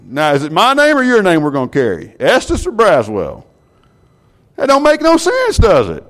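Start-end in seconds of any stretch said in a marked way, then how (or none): 4.6-6.0 much higher, louder "That don't make no sense"; a preacher's mock disbelief; incredulous preacher. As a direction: throw it out in disbelief. Mock outrage at name question.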